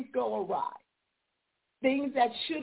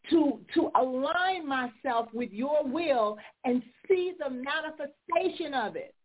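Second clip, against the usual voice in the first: fervent prayer; 4 semitones higher than usual. Retold or imitated. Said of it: "my disruption for that cycle was to say".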